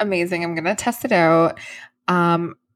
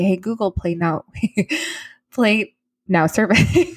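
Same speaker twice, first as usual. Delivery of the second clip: laughing; 2 semitones higher than usual. Retold or imitated. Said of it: "I'm gonna train her to say".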